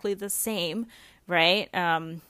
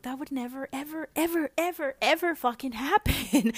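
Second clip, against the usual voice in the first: piles up the evers, higher and insistent; emphatic disbelief; 6 semitones higher than usual. Retold or imitated. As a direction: scoff at the idea, pushing every ever up. Mock reaction to the movie.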